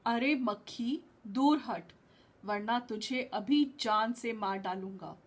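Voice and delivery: lion roaring. Acted. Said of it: "वो दहाड़ा".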